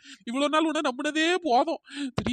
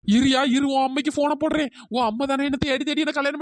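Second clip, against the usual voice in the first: threatening yell; 5 dB louder than usual. Acted. Wife threatens to call mother-in-law.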